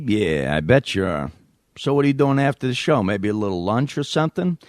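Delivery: leering New York caller; New York accent. Acted. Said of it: "me doing a New York accent".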